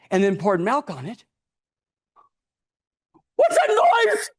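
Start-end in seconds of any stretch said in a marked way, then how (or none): 3.4-4.3 put-on much higher, louder frightened child's voice; spooked boy hearing a strange noise; startled boy. Boy asking mother about the cereal noise, scared and high.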